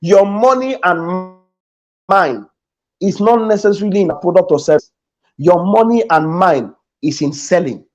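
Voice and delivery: emphatic preacher drive, slowed right down. Real, not acted. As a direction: lay each phrase down with heavy pauses. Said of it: "let me say this very emphatically".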